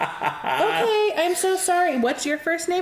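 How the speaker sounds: sarcastically overpolite, laughing through it; mock apology. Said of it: "And I'm like".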